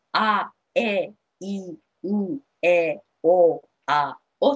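each vowel mouthed open and separate, あ え い ん え お あ お; wide open vowels. Shown as a demonstration. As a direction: shape あ、え、い、お with a big open jaw. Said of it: "口をね、ちゃんと".

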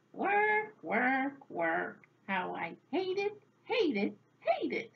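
woeful grumble, each word punched out separately; grumbling. A narrator's reading. Old woman complaining about housework, grumbling in a rhythmic lament. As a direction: grumble it like a weary refrain. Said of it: "soon she was grumbling again".

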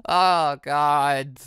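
slow words broken by real laughter; laughing. Real, not acted. Laughs at the scene.

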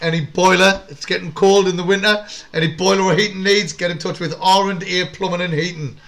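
measured sponsor plug, evenly stressed; ad read. Real, not acted. Host plugs plumbing sponsor during a lull, ad read. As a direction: deliver it like a local radio advert.

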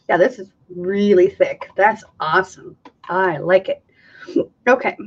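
talking through the hiccups. Real, not acted. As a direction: speak with hiccups breaking in. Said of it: "Sorry, I've got the hiccups".

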